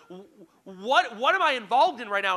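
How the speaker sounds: a sudden panicky outburst about what he's caught up in; panicked. Retold or imitated. Handed a shovel at night, fearing a crime, panicked. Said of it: "And I'm thinking".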